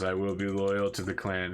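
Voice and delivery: subdued, obedient repetition; brainwashed captive. Acted. Captive repeating the interrogator's loyalty oath, subdued and obedient. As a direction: repeat the oath back submissively. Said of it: "the person just says".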